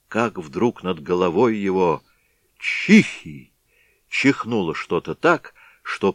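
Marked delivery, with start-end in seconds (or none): 2.6-3.5 sudden high sneeze; startling mock sneeze; loud sneeze. A narrator's reading. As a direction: sneeze it out big overhead. Something sneezes overhead.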